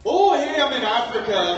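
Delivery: loud, high, badly faked South African; hammed-up terrible South African accent; wife's awful South African accent. Husband mocks his wife attempting South African, hopelessly bad accent. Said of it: "South African".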